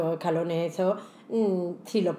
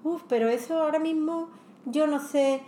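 retold waitress; 6 semitones higher than usual. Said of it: "Y me dice".

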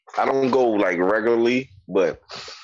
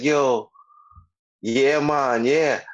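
put-on Jamaican accent; 6 semitones higher, much slower than usual. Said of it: "started talking Jamaican".

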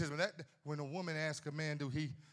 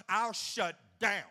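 slow and louder, each word spaced; mock defiant vow; 4 semitones higher, 8 dB louder, much slower than usual. Husband telling his wife off, slow and defiant. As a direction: drag it out, stubborn.

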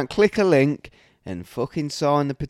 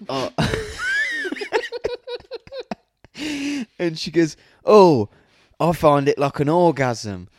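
mock high-pitched woman; hamming up a client claiming pleasure; imitating the woman; 6 semitones higher, 4 dB louder than usual. Tattooist mocking a client who claims pleasure, hammed-up high voice.

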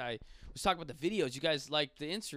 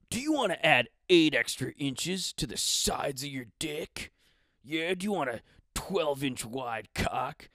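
mock sales announcer, punching the selling words; lightly hammed-up commercial parody; ad pitch; 6 dB louder than usual. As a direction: hawk it like a cheesy online ad. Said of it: "that's what the ads will say".

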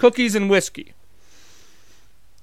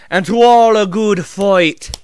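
loud, slowed-down send-off; big drawn-out Santa sign-off; hearty proclamation; 3 semitones higher, 6 dB louder, slower than usual. Acted. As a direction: proclaim the punchline grandly.

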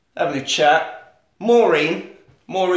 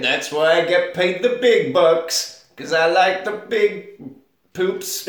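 slowly savoured boast of a sewer man; lightly voiced proud sewer worker; sewer man's catchphrase; 4 semitones higher, slower than usual. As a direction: draw out the boast with relish. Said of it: "as he keeps saying".

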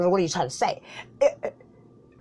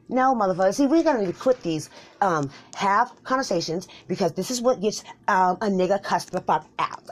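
angry rant; 4 semitones higher, 5 dB louder than usual. Acted. Escalating comic rant.

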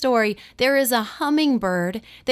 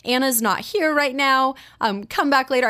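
mock yell. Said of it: "I will yell back at him".

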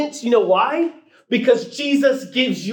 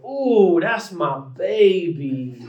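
mock kids' answer; much slower than usual. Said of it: "all the other kids go".

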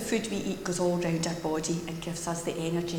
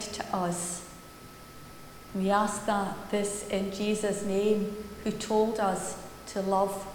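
prayer; 4 dB quieter than usual. Real, not acted. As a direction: lead the congregation in solemn, unhurried prayer. Leads a public prayer.

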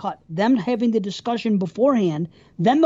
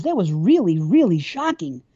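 humoring, insincere; 3 semitones lower than usual. Retold or imitated. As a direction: humor her, don't mean a word. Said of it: "just sounds like he's fucking bullshitting her".

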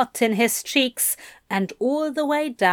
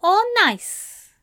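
higher, playful teasing voice; teasing Aziraphale; 11 semitones higher than usual. A narrator's reading. Aziraphale teasing Crowley in a lilting voice. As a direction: tease him like a coy Santa.

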